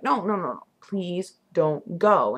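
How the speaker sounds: drawn-out, slow plea; plead, stretching out the last words; begging. Retold or imitated. Begging John not to take off, drawn-out plea. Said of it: "I just begged him not to go".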